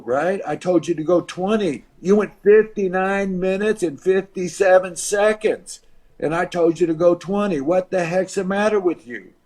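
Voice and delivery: mildly imitated scolding boss; retold berating. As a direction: chew him out, with restrained force. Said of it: "George Scott is just berating".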